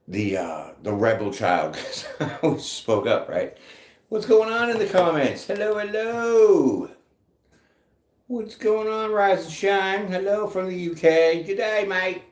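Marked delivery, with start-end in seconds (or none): 4.1-6.9 high, sing-out hello to the chat; put-on high hostess voice; playful greeting. Greeting live viewers in put-on voice. 8.3-12.2 high-pitched mock British greeting; cheery, hammed-up UK accent; playful UK accent. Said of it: "I'll do any kind of accent. U K is a little tricky".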